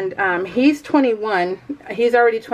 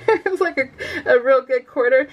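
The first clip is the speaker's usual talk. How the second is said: laughing; 3 semitones higher than usual. Real, not acted. Laughing over huge cake slice.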